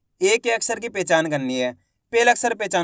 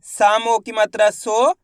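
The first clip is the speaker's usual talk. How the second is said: slow spelling out. Shown as a demonstration. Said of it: "चलिए देखिए".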